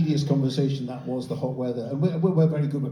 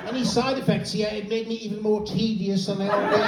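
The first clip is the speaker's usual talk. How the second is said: tedious jab chat; 4 semitones higher than usual. Acted. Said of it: "in the U K with tedious conversations".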